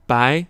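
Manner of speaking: 白 with a rising second tone. Shown as a demonstration. Teacher introducing the word for white, 白 said in rising second tone. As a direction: lift the pitch through 白. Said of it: "second tone".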